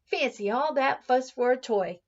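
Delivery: nanny grumbling while rubbing him off; Nana grumbling. Acted. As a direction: tut at the fuss like a busy nanny. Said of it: "Nana grumbled as she rubbed him".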